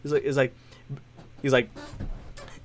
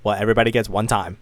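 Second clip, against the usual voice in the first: lower, quick hero one-liner; Spider-Man; 6 semitones lower, faster than usual. Retold or imitated. Superhero after a rescue, brisk lowered line. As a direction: drop the pitch and toss it off briskly. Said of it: "and then he goes".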